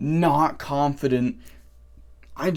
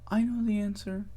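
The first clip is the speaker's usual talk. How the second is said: small, high, hushed answer; mock a shy kid speaking far too softly; timid student; 6 semitones higher, 9 dB quieter than usual. Shy student answering the teacher in class, timid. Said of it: "he's like this".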